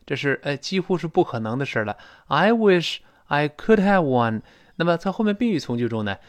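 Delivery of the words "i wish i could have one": slow model reading. Shown as a demonstration. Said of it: "要用虚拟语气".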